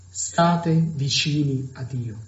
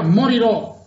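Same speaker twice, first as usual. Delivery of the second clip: a cry of doom, raised high and loud; mock cry; 6 semitones higher, 5 dB louder, slower than usual. Pessimistic frog cries out that it will die, raised and loud. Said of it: "gridò quest'ultima".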